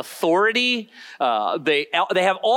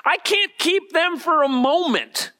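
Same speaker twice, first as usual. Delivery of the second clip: raised, high-pitched sermon delivery; emphatic preaching; 5 semitones higher than usual. Real, not acted. Preacher telling the congregation they cannot keep the commandments, emphatic. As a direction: drive the point home to the congregation. Preacher drives home the main point.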